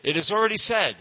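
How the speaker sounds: high, loud and emphatic, imitating the guru; retelling the guru's loud proclamation; loud declaration. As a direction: announce it with full authority. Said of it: "and he, loud".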